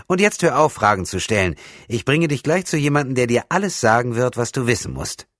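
put-on high, loud boyish voice, bossy; brash camp lad. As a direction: play a young lad taking charge.

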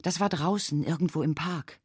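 soft, hushed reassurance; calming softly. Acted. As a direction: settle the frightened room gently. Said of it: "Carrie Louise beruhigte".

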